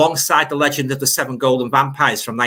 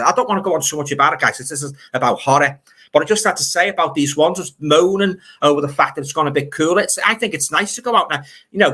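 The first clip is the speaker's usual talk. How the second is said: worked-up rant; 3 semitones higher than usual. Real, not acted. Telling viewers off about people who moan about cool weather, exasperated rant. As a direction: let off steam about the weather moaners. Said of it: "That's me rant".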